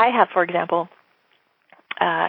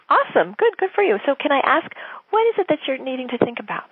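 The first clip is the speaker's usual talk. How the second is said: upbeat leaning in; 5 semitones higher than usual. Shown as a demonstration. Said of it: "You say".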